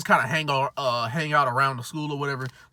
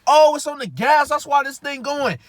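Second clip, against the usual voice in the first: dawning realization; 11 semitones higher, 4 dB louder than usual. Retold or imitated. Realizing foot on gas.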